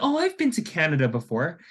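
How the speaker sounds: light put-on friendliness; casual friendly chat. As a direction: play a chummy stranger distracting tourists. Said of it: "very casually talking to us".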